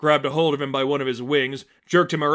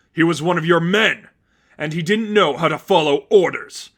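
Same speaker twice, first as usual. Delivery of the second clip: louder, sharp villain voice; villain's retort; 4 semitones higher, 7 dB louder than usual. Acted. Seraphim answers Batman after killing his servant, loud and cold. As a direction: snap back with cold authority.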